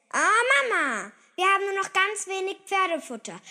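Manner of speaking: put-on high, loud, hurried child voice; whiny, alarmed kid; dismayed girl. A narrator's reading. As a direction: complain urgently to a parent. Girl complains food is low.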